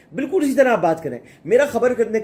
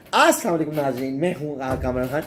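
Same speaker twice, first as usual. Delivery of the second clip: Kamran Khan; 5 semitones lower than usual. Retold or imitated. Anchor mimicking his old colleague's greeting to viewers, signature impression. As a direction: imitate a veteran anchor's signature sign-on. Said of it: "Khan صاحب آج بھی اسی طرح بولتے ہیں".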